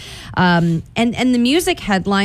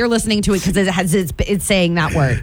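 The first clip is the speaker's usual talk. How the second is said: exasperated mom voice; parent impression. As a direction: scold like a fed-up mom. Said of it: "nails her mom's voice very well".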